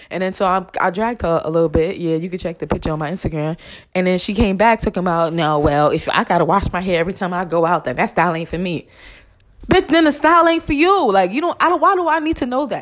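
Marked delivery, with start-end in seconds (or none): none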